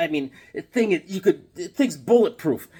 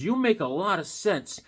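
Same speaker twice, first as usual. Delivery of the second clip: raised pitch, mock agreement; very sarcastic; 4 semitones higher, 4 dB quieter than usual. Retelling his reply to the garbage-can neighbor, sarcastic. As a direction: agree sarcastically, without shouting. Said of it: "now I'm being very sarcastic".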